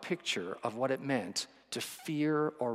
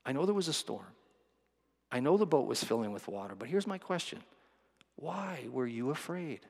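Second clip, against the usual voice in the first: patient, gentle Jesus. Pretend. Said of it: "And Jesus is like".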